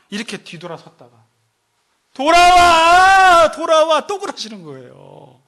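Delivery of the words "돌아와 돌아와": loud, high, long drawn-out call; acted urgent cry to return; calling back. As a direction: holler after someone walking away. God calls the departed back.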